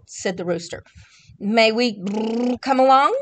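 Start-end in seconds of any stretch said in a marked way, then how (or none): 1.4-3.2 burbling fish voice; bubbly fish voice. Acted. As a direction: blow bubbles through the words. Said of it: "asked the fish".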